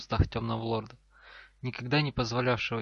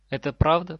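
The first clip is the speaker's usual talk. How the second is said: louder, pitch lifted on "правда"; questioning intonation; 4 semitones higher, 7 dB louder than usual. A narrator's reading. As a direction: ask "правда" with a clear questioning lift. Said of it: "Фраза определённо несла вопросительный оттенок". (с вопросительной интонацией)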